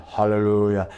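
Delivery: restrained retold pastor's exclamation; pastor's hallelujah. Pastor responds to the prophecy, restrained hallelujah. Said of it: "And the pastor said".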